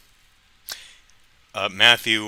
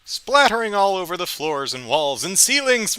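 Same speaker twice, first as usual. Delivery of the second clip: maniacal villain voice, higher and louder; mad scientist; 11 semitones higher, 9 dB louder than usual. Retold or imitated. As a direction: cackle it out like an evil showman. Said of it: "So the show ends and it's like".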